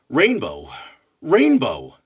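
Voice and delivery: rising exclamation of awe; building wonder. Acted. Poem's climactic repeated word.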